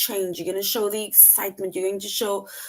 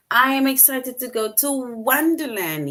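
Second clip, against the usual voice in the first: excited; 4 semitones higher than usual. Shown as a demonstration. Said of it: "because you are showing your excitement".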